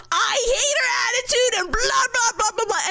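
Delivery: mock complaining. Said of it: "the lady's like".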